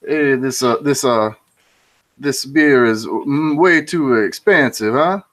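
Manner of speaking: put-on a rough go at an Italian accent, halting. Joke-teller as Italian tourist grumbling at the bar, light Italian accent. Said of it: "I would totally do an Italian accent".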